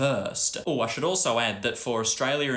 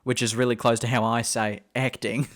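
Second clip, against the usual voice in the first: ordinary talk, nothing marked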